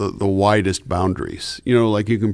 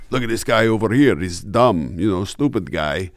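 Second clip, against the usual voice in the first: Triumph the Insult Dog. Shown as a demonstration. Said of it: "Triumph the insult dog".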